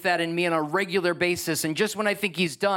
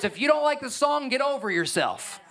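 preaching hard; 6 semitones higher than usual. Real, not acted. Preacher rebuking consumer churchgoers.

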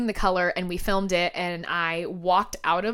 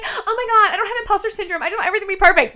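high, louder mock denial; mocking perfectionist; 11 semitones higher, 5 dB louder, much faster than usual. Mocking perfectionists who deny imposter syndrome, high mock whine. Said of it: "don't sit here and be like".

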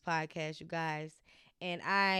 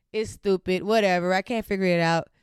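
louder, fed-up venting; retelling a fed-up moment out loud; frustrated outburst; 8 dB louder than usual. Retold or imitated. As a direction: throw your hands up, louder. Retold late-night frustrated text to friend.

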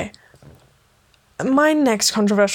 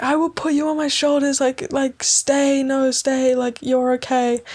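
high pleading voice coaxing her to stay; pleading friend; 4 semitones higher than usual. Retold or imitated. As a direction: coax like the anxious friend.

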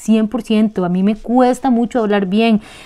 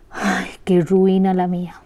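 self-pitying lament; 3 semitones lower, 4 dB quieter than usual. Shown as a demonstration. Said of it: "usted dice".

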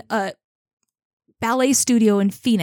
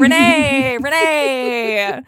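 loud, high exasperated Renee; mock scolding cry; 5 semitones higher, 7 dB louder, much slower than usual. Real, not acted. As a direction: call her out in fond outrage.

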